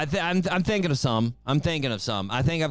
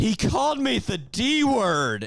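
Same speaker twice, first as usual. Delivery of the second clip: put-on high, drawn-out, teary crying child's voice; 7 semitones higher than usual. Retelling a kid crying to the principal: imitating a crying kid. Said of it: "he started crying".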